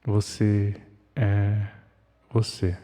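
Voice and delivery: very slow and smeared, like a warped tape; damaged tape voice. Acted. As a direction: drag each word out like a broken recording. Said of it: "suave, imprecisa, como uma fita danificada".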